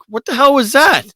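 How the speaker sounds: high-pitched mock alarm; imitating alarmed reaction. Retelling a reaction to a child's fall, high mock alarm. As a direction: imitate someone startled by a crash. Sarah alarmed by bangs in story.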